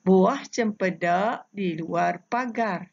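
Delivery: slow, measured reading of the pantun line; pantun recitation. Shown as a demonstration. Teacher modelling a pantun line for pupils, slow recitation. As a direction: lay each word out slowly for pupils to copy. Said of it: "cara cikgu membaca pantun ini".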